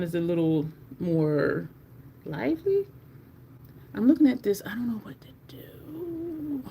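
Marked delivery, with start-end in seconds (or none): 4.7-6.6 unvoiced, slow whisper to herself; slow hushed whisper of indecision; whispered dilemma. Real, not acted. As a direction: mutter it softly, stumped. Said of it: "whispered to self".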